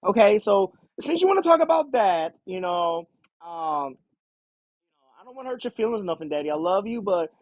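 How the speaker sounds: a fair hint of the spoiled kid complaining; whiny teen daughter. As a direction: daughter brushing off her father on the phone, bratty and high. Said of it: "that's how she's talking".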